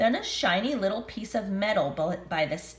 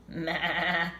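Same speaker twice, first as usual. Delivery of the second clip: goat bleat; 3 semitones lower than usual. Acted. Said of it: "said Goat".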